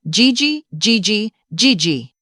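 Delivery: put-on high, eager little boy calling grandma, fading down; a six-year-old thrilled to see grandma; excited child. A narrator's reading.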